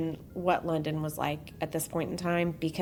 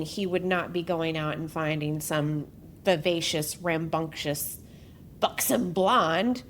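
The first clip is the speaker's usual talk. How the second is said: mock sultry; 3 semitones lower than usual. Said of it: "I don't know why I did that".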